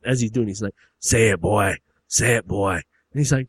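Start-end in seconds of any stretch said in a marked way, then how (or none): 1.0-2.7 loud, forceful command in usual pitch; acted stern barking order; demanding father. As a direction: demand it between lashes. Father demands while whipping.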